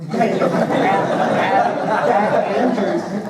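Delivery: words pushed out through a loud laugh, slow and high; real laughter breaking up the words. Real, not acted. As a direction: laugh your way through the place name. Laughing about old dislike.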